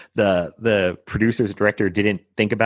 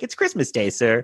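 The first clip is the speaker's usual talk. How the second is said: put-on boy answering; 3 semitones higher than usual. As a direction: answer brightly like a small boy. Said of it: "He's like".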